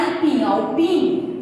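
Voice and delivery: empim, then PIM singled out; stress on PIM. Shown as a demonstration. Teacher showing the stressed syllable of empim, stress on PIM. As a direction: lean on the final PIM of empim. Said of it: "você pode perceber que tá mais forte".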